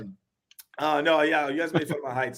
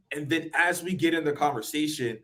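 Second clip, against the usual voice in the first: ordinary delivery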